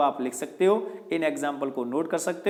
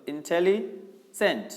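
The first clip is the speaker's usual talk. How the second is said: इंटेलिजेंट stretched out slowly, syllable by syllable; much slower than usual. Shown as a demonstration. Teacher demonstrating a long word to the class, slowly syllabified. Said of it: "दूसरा".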